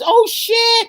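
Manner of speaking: high-pitched mock exclamation; imitating a movie kid. Griping about a noisy kids' film, mimicking a high kid's outburst. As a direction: blurt it high like an excitable kid. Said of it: "he says".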